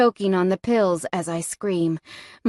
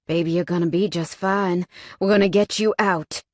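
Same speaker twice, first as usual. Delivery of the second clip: rasping reassurance; raspy; 2 semitones lower than usual. Acted. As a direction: rasp it out gently. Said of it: "Cade rasps".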